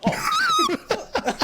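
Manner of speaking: dismayed oh. Retold or imitated. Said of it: "I'm like".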